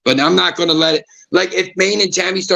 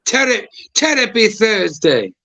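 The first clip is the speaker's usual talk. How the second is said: put-on slow, higher, joking Jamaican accent; 5 semitones higher, slower than usual. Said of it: "He just did a Jamaican accent".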